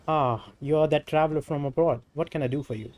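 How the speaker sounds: animated dialogue read with emphatic openings; lightly voiced game character. Game character answers a traveler bearing a letter, lightly acted. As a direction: lightly act out a character's spoken lines.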